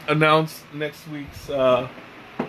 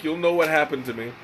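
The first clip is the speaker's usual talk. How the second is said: usual speaking voice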